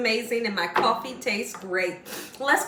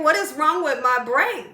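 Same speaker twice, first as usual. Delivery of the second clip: confused impression; 3 semitones higher, 4 dB louder than usual. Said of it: "he was so confused".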